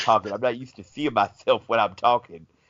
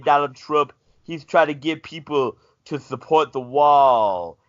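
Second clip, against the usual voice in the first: wrestling promo. Retold or imitated. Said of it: "Could you go give us the plugs".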